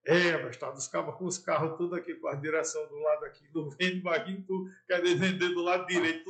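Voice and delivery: imitando o Barão, mais alto e debochado; zombaria encenada. Retold or imitated. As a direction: deboche em voz alta, levemente encenado. Barão zombando do vendedor em público. (zombaria encenada em português, falando alto)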